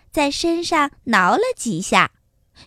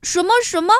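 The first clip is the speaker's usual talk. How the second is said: puzzled surprise; 4 semitones higher, faster than usual. Acted. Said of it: "小蚂蚁更觉得奇怪了".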